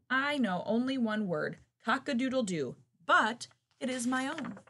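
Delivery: loud, high, proud crow; crowing rooster. Acted. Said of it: "the rooster crowed".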